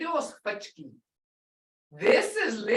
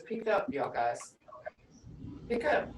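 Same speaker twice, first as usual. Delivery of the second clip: even voice; 2 semitones lower, 8 dB quieter than usual. Retold or imitated. Husband asking the kids to pick up, even voice. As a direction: imitate a calm husband, softly. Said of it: "Just an even voice".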